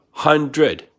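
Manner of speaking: HUNDRED split into two beats, hun-dred; two syllables. Shown as a demonstration. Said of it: "they all have two syllables".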